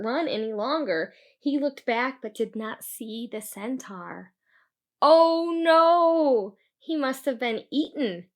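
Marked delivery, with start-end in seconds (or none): 5.0-8.3 dismayed thought. Acted. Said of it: "thought Christian".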